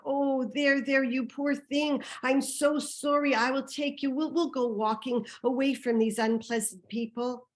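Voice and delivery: slightly high, put-on soothing voice; cooing sympathy. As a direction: comfort him like a poor dear. Woman soothes the old man.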